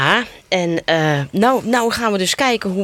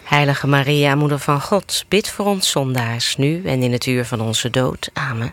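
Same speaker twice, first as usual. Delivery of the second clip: lower, steady recited response; prayer response; 3 semitones lower than usual. Real, not acted. Host answers the priest's Hail Mary, recited response. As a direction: answer the prayer evenly, as in church.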